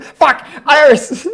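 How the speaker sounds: loud frustrated outburst at own slip; furious yell at a mix-up; exasperated shout. Real, not acted. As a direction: blurt it out, annoyed at yourself. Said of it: "these names, it's gonna kill me".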